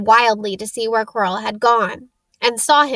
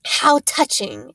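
hissed; 4 semitones higher, slower than usual. Acted. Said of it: "it hissed".

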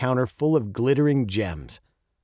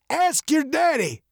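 put-on high, gravelly old man's voice; testy old man, high and gravelly; old, gravelly jeweler. A narrator's reading. Blind jeweler correcting the girl, old and gravelly. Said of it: "his voice as old and gravelly as his face".

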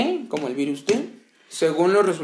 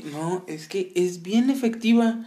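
leve voz de tía chismosa, más lenta; un toque de tía que da consejos caseros; imitando a la tía; 4 semitones higher than usual. Retold or imitated. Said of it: "la, la, tu tía". (tía recomendando remedios, voz de tía suave)

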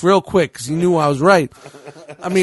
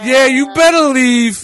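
slow, louder, mocking tough-guy threat; slow hammed-up macho warning; 5 semitones higher, 4 dB louder than usual. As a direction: drawl it out like a wannabe tough guy. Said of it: "Tough guy".

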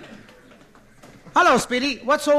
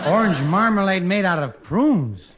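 incredulous; 3 semitones higher, 5 dB louder than usual. Real, not acted. Disbelief at the prune marmalade.

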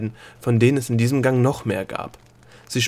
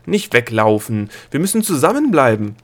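urgent calling; 2 semitones higher, 5 dB louder than usual. Acted. Gnome calls after Delia.

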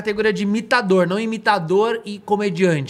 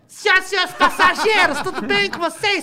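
high, hammed-up airline pilot announcement; mock pilot greeting passengers, squeaky high; pilot cockpit headset; 10 semitones higher than usual. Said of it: "O piloto de avião".

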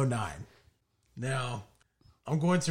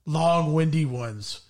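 romantic voice; 2 semitones higher, 3 dB louder than usual. Acted. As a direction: draw out each phrase of the love letter. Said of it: "do it in a romantic voice".

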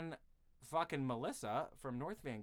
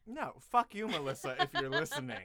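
mock angry; 6 dB louder than usual. Mock outburst at rival.

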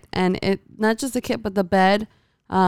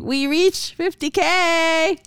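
excited announcement; 9 semitones higher, much slower than usual. Real, not acted. Announcing channel milestone.

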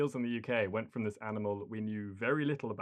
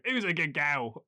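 mock fisherman cooing to a pet, higher and slow; louder, drawn-out imitation of an old fisherman's pet talk; elderly fisherman impression; 6 semitones higher, 5 dB louder than usual. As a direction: draw it out like talking to a dog. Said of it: "Elderly fishermen talking to a seal like it's a dog".

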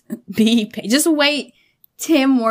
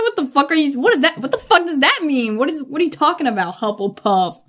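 higher, offended rant; hammed-up outrage; mock indignant; 4 semitones higher than usual. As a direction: act insulted by the house name. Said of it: "I'm like".

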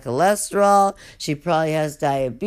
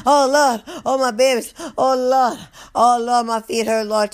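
higher, louder, lightly voiced cheery guard; perked-up guard; 7 semitones higher, 4 dB louder than usual. Guard arriving full of energy, hammed-up cheer. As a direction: bounce in like she just got energy. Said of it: "she would have came in all".

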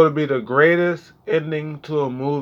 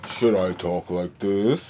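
trying a voice; 6 semitones lower, 3 dB quieter than usual. Retold or imitated. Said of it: "I used to be like".

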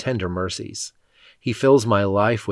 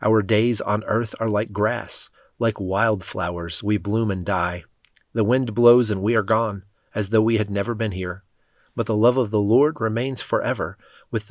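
scripture reading. Acted. Reader reads the psalm to the congregation, reverent and measured.

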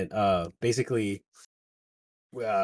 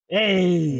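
loud, high holler; yelling back; 9 semitones higher, 9 dB louder than usual. Retold or imitated. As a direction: imitate a guy hollering back from afar. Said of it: "a guy yells back".

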